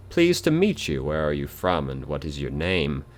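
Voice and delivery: a corpse greeting the living, teasing; talking corpse. Acted. Dead man's voice talks to player.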